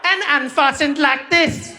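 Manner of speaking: attendant announcing safety on the phone; flight attendant. Retold or imitated. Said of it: "that woman took the phone and she's like".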